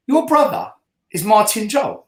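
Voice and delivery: astonished question, jumping high on the first words; retold disbelief. Fan questioning the man who claims Martin Jol's brother, astonished. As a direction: ask it in sheer disbelief. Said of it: "I couldn't believe it".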